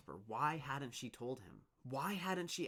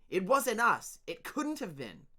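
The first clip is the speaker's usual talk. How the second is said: protesting; 11 semitones higher, 10 dB louder than usual. Acted. Dune protests.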